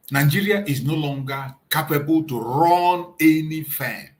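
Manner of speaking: climbing from firm speech into a full rally shout; rising denunciation. Real, not acted. Host's rising rally-style denunciation.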